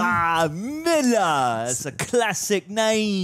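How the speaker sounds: drawn-out, hammed-up London voice; mock London accent. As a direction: savour it as a fake Londoner. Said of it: "you sound like you're from London".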